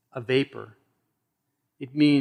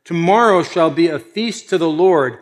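loud public announcement; proclamation; 2 semitones higher, 6 dB louder than usual. Acted. Aaron announces tomorrow's feast to the people, proclaiming loudly. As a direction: proclaim it out to a crowd. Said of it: "Aaron made proclamation and said".

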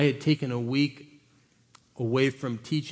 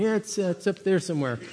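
casual, laughing; 3 semitones higher than usual. Retold or imitated. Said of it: "a guy with a yellow vest out there with a smile on his face".

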